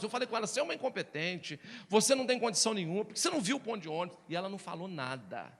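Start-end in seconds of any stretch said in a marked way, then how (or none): 0.5-4.2 fast, lightly acted scolding; mock rant. Husband scolding his wife on the bus, a mild fast mock rant. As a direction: rattle off the accusations in a mild huff. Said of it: "eu dei um show no ônibus".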